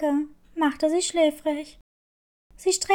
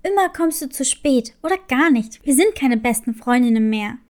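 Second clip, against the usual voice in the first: grumbling friend; 4 semitones lower, 4 dB louder than usual. Acted. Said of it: "und meckerte".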